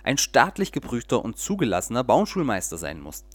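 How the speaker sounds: lively storyteller reading aloud; audiobook-style story narration. A narrator's reading. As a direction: read it like a bedtime tale with little voices. Reads a children's story aloud.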